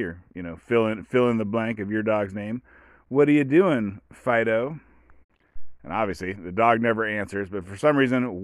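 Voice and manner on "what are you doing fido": raised-pitch, louder doggy voice; baby talk. Retold or imitated. Owner asking Fido, in baby talk. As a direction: fuss over a dog in baby talk. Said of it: "do it in an elevated baby talk voice".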